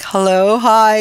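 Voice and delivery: mock-shy nervous hello; nervously greeting the psychic, a touch faked. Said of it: "kind of really shy and nervous".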